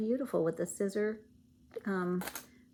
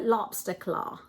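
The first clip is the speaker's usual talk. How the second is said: attempted Maine accent; slower than usual. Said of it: "I can't say it with the accent like they do".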